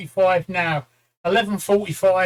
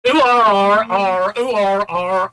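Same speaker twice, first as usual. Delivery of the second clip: put-on Suffolk accent; 9 dB louder than usual. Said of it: "say it in a Suffolk accent".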